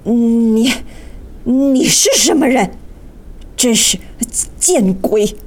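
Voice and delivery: fierce, suspicious challenge; vicious demand. Acted. Magician confronts the stranger in his magic circle, fiercely. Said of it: "大魔法师恶狠狠地问".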